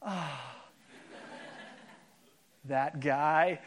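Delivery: soft, low mock swoon over a movie hero; a lightly voiced dreamy sigh; swooning girl. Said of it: "every girl goes".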